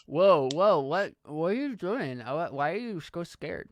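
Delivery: put-on loud whoa, then puzzled kid asking; taken aback. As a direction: react to a jumpy new friend. Paul reacts to Timmy's shriek.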